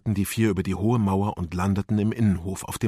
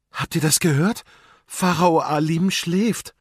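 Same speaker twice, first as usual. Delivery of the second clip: trembling voice; 7 semitones higher, 3 dB louder than usual. A narrator's reading. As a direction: repeat the shocking news in disbelief. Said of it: "Ihre Stimme zitterte". (mit leicht zitternder, erschrockener Stimme)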